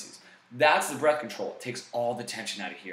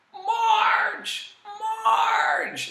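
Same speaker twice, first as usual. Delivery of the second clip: very high, loud nasal "Marge!" call; Marge Simpson call; 6 dB louder than usual. Shown as a demonstration. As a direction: shout it way up high like calling Marge. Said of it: "the Marge Simpson exercise".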